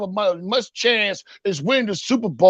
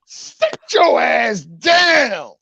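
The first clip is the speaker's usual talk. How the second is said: slow, stretched shouted sit your ass down; a long drawn-out yell; much slower than usual. Acted. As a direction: stretch every word and yell it. Catchphrase shouted at Gobert.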